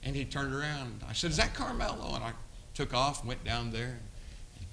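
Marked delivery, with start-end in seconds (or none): 1.3-2.1 high-pitched questioning call; retold surprised call. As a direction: act out spotting someone from afar. Retold call across the alley.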